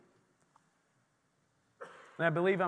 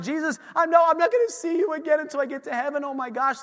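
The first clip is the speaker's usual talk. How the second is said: higher, hurried pleading; mock upset; 8 semitones higher, faster than usual. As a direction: act out a disciple dismayed at parting. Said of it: "they're upset".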